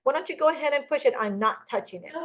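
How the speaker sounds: high, amused retelling of her friend; laughing friend. Retold or imitated. Seller reassuring the nervous agent, amused and high. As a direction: lightly play the seller laughing it off. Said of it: "she starts laughing".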